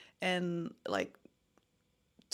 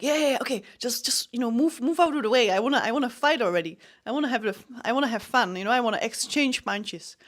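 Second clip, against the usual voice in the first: rushed, raised, itching to start; eager fighter waving off the referee's checks; impatient eagerness; 3 semitones higher, 4 dB louder, faster than usual. Retold or imitated. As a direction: brush the referee aside, just let me fight.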